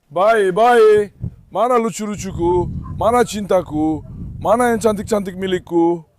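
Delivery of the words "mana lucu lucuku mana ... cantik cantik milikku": slow doting puppy talk; slow cooing to the puppies. Real, not acted. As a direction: coo over the puppies.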